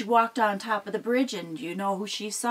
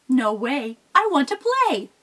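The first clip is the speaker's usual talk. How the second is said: put-on higher, louder cheeky kid goat; little goat; 5 semitones higher, 6 dB louder than usual. Little goat defying Mama Troll. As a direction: sass her like a small stubborn kid.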